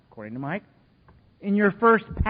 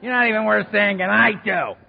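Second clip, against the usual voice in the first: dismissive; 4 semitones higher, 5 dB louder than usual. Retold or imitated. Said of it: "He'd just dismiss us".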